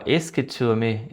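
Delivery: Est-ce que tu aimes drawn out very slowly; slow French demo. Shown as a demonstration. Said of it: "eu vi eles dizendo isso aqui, ó". (pergunta francesa dita bem devagar)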